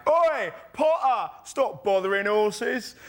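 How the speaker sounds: high, slow, loud London yell; loud shout. Retold or imitated. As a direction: bellow it across the street at him. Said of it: "shouted out really loudly".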